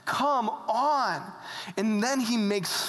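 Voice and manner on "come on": drawn-out, chiding appeal; mock exasperation, slightly raised; amused exasperation. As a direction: chide a friend, stretching the words. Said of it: "But he laughs. He's like".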